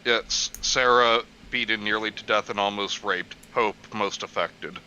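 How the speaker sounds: very low, dramatic TV narrator voice; a deep mock true-crime announcer.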